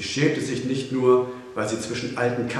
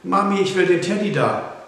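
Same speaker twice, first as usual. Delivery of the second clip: put-on high, loud little-girl demand; excited, high-pitched child's cry; child calling out; 9 semitones higher, 6 dB louder than usual. A narrator's reading. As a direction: tug at mum and call out for it. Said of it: "zerrte seine Mutter hinter sich her und rief".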